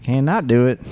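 put-on "Can't not do it" in a drawling country accent. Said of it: "with a way more country accent".

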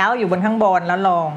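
"L" placed on top, then falling; high-to-low stress demo. Shown as a demonstration. Teacher explains Alice's stress to student, "L" high then down. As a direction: start high on "L" and come down.

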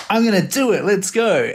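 high, excited self-quote; retold eagerness. Man recalling his reaction to a burger post, excited.

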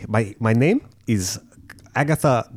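lightly put-on South African voice; a hint of a South African lady; South African accent. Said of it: "Her voice".

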